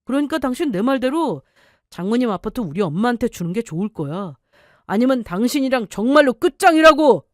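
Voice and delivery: lightly voiced husband, coldly threatening; a hint of a bullying husband pressing his wife; husband voiced lightly, cold threat.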